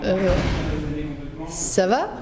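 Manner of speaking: concerned voice. Acted. Concerned caring question.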